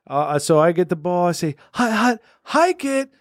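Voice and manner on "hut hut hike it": slow, higher hut hut hike; snap count call. Pretend. New coach-quarterback calling the first snap, slow and high.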